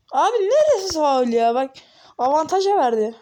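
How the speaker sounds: loud indignant disbelief; outraged protest. Real, not acted. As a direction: complain loudly about the foul. Protests the referee's foul call.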